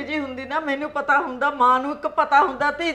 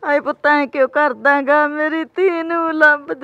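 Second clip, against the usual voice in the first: pleading cry; 5 dB louder than usual. Acted. Mother begs son-in-law to find daughter.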